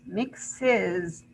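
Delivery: "mixes" sounded out as MIX-iz; teacher showing the added "iz" in "mixes"; additional syllable. Shown as a demonstration. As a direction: split "mixes" into two clear beats. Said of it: "additional is".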